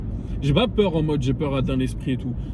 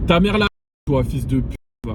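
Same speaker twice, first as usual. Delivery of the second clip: angry yell at driver; 4 dB louder than usual. Real, not acted. Insulting a driver with headlights.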